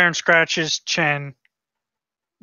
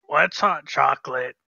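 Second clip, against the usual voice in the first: new character voice. Acted. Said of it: "trying to find a new voice for him".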